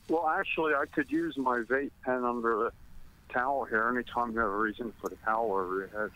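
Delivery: out of breath from running; slightly winded from running. Real, not acted. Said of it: "I'm kinda out of breath 'cause I was running".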